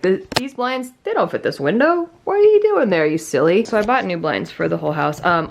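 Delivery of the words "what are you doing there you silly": cat talk. Real, not acted. Talking to the cat.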